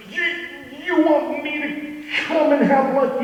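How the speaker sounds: put-on a startled boy can't believe the invite; surprised boy. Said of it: "John kicks his head back and goes".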